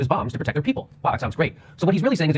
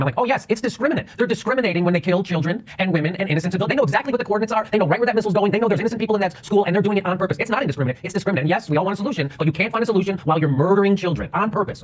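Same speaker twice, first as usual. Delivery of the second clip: raised, heated retelling of a yell; retold scream; 5 semitones higher than usual. Host retelling yelling back at the TV, mock heated shout. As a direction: pitch climbing high with indignant insistence, not a full shout. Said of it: "I did scream".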